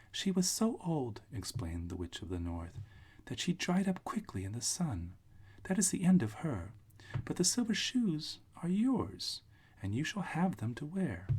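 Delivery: put-on little old witch. Witch figure, high voice.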